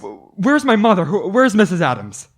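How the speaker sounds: a son demanding where his mother is; panicked stammer. Acted.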